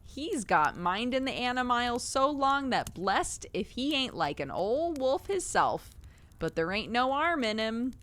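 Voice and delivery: a plain-spoken keeper telling his tale; Cockney zookeeper. Acted. Reader holds keeper's Cockney voice.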